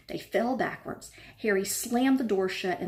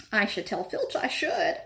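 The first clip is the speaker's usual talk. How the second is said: saintly voice. Acted. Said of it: "he said in a saintly voice".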